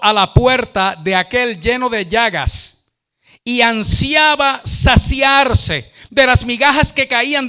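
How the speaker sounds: slow, emphatic scripture proclamation; declamatory Bible reading. Acted. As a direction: proclaim the verse, drawing out key words. Reads the Bible verse aloud.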